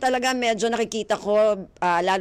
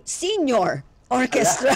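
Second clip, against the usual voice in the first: joking, laughing; 3 semitones higher, slower than usual. Real, not acted. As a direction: break into laughter on "Orchestra". Host jokes about a senior orchestra.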